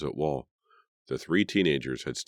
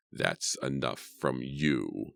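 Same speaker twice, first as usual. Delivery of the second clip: menacing; 2 semitones lower, 4 dB quieter, much slower than usual. Acted. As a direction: threaten him quietly and slowly. Edward raising rifle, menacing.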